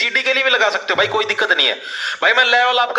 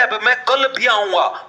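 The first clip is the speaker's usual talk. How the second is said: भी pressed in मैं कल भी आऊंगा, read slowly; stress on भी; slower than usual. Shown as a demonstration. Teacher shows students the stress, leaning on भी. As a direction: hit the word भी hard. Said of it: "जोर डाला है भी वर्ड ने".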